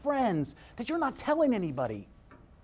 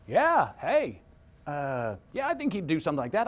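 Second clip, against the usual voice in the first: acting out a weak, noncommittal yes; weak agreement; 3 semitones lower than usual. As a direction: agree half-heartedly, as if not really convinced. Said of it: "That, that totally sounded weak".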